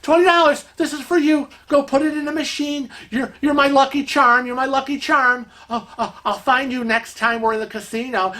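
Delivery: high, bubbly giver voice; gushing lady. Retold or imitated. Casino friend handing Kevin twenty dollars, gushing. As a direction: press the money on him gladly. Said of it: "He goes".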